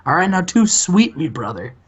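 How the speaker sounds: lightly voiced sleazy TV boss sweet-talking; Bischoff impression. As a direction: pitch it up like a smarmy promoter reassuring his star. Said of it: "He's like".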